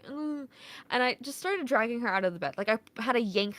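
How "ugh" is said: high, soft groggy groan; reluctant mock groan; sleepy groan. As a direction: imitate a mom groaning half asleep. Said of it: "I'm, like, half asleep".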